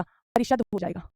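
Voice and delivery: परिषद drawn out slowly and softly; slow dictation. Shown as a demonstration. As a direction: say परिषद slowly so they can write. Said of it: "teacher dictates answer". (धीरे से परिषद बोलते हुए)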